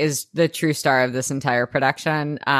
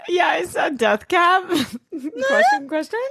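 high squealing laugh through words; cracking up while speaking; laughing shriek; 12 semitones higher than usual. Real, not acted. Laughing, retelling her reaction.

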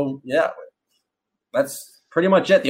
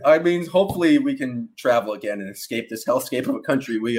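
usual speaking voice

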